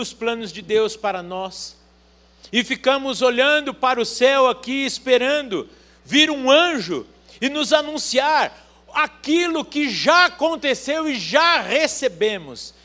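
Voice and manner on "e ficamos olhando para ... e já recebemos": higher, louder building fervour; rising fervent preaching. Acted. Preaching rises.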